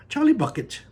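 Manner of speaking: Wonka crying out. Acted. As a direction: sing it out with delight. Wonka calls.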